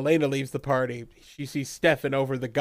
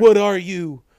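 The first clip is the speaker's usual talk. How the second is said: startled shout; 5 semitones higher, 7 dB louder than usual. Retold or imitated. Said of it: "And he's like".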